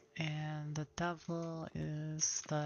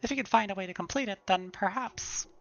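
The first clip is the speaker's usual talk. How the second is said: excited nerd; 4 semitones higher, 4 dB louder than usual. Acted. Voices historian NPC.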